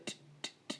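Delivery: "ട്, ട്, ട്" as bare unvoiced t releases; voiceless t sound. Shown as a demonstration. Teacher demonstrates the ending, "ട്" voiceless. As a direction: tap out "ട്" with no voice. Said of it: "ട് എന്ന സൗണ്ടിലാണ് end".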